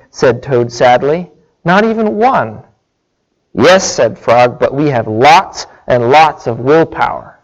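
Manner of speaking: lively storybook reading, pitch rising and falling; story read aloud. A narrator's reading. Preacher reads Frog and Toad story to listeners, animated storytelling.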